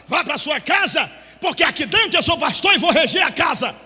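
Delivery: bronca alta e aguda; repreensão firme. Retold or imitated. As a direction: enquadra a mãe com autoridade. Pastor repreende a mãe. (pastor repreendendo a mãe em voz alta)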